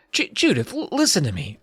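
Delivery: mild, halting appeal; pleading. A narrator's reading. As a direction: stumble over the words, pleading. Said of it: "I pleaded".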